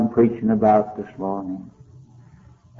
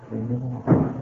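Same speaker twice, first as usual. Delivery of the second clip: retold plea; 2 semitones lower, 6 dB quieter than usual. Repeat of her plea, softer.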